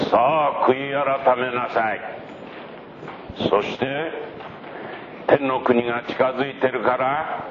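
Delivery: high proclaiming prophet voice; preacher calling out. Acted. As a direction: call the crowd to repent, pitched high. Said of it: "うするとまた聞こえてきます". (高い声で群衆に呼びかける預言者)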